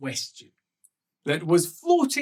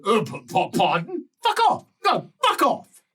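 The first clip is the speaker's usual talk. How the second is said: indignant countess; 4 semitones higher than usual. Acted. Countess repeats fuck off.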